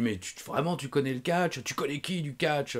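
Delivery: lightly acted challenge; imitated insistence. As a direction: press the question as the doubting promoter. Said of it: "il insistait".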